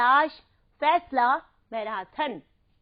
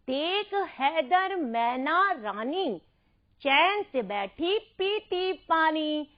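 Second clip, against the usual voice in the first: slow rhyme recitation; 2 semitones higher, slower than usual. Acted. Teacher recites rhyme to children.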